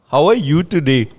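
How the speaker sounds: lightly put-on Indian accent. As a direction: ask politely in an Indian accent. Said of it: "you're going with that accent".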